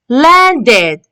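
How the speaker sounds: "Landed" ending in a full ed; teacher's model "Landed", final ed clearly sounded; ed as a syllable. Shown as a demonstration. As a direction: say "Landed" in two careful syllables, last one ed. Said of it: "It's the ed sound".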